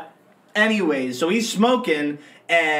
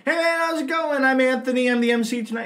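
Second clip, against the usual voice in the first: upbeat greeting; 6 semitones higher, faster than usual. Retold or imitated. Retelling greeting the best man.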